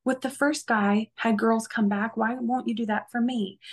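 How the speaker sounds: a hint of a wheedling boyfriend; imitating boyfriend. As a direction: needle her like he did. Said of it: "He's telling me".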